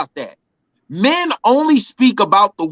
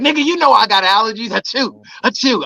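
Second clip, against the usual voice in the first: fast, whiny complaint with fake sneezes; mock annoyed girlfriend; 2 semitones higher than usual.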